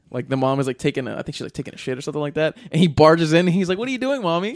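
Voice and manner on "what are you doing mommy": put-on robot child voice. Robot boy voiced in retold movie.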